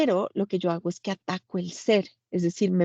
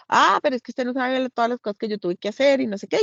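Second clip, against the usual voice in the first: put-on protesting child; 4 semitones higher, faster than usual. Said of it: "lo que voy a decir es".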